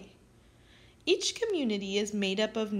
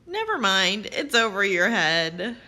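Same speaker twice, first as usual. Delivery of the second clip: louder teasing punchline; 4 semitones lower, 5 dB louder than usual. Acted. Teacher telling kids the roof joke, louder teasing punchline. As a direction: deliver the pun with playful punch.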